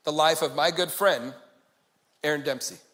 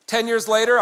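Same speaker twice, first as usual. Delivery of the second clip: loud restart; 3 semitones higher, 5 dB louder than usual. Shown as a demonstration.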